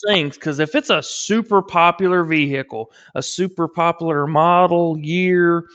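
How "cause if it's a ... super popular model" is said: words blurring together, tipsy; slurring. Real, not acted. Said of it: "Did you say poplar?".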